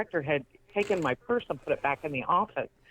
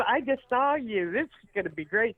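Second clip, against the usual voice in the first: amused gushing; 7 semitones higher than usual. Retold or imitated. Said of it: "And he's laughing".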